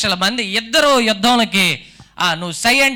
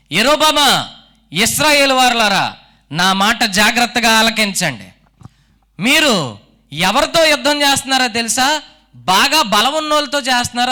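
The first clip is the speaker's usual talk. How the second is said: king's battlefield challenge. Retold or imitated. Preacher voicing King Abijah to Jeroboam's army, a lightly raised proclamation. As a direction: address the enemy army like a king, mildly raised. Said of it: "నిలబడి మాట్లాడుతున్న మాటలో".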